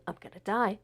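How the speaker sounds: softly repeated dread, understated; hushed, mildly fearful inner mantra; inner panic, retold. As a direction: murmur it as a private thought. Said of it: "I'm just thinking".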